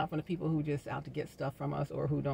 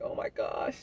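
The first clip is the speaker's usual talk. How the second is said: excited gushing; 8 semitones higher, 6 dB louder than usual. Pretend. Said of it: "Be like".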